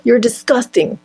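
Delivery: put-on a touch of a Spanish accent on the father's line; imitating a father in a light Spanish accent; father's scornful line, lightly in a Spanish accent. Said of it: "it's, like, with that accent".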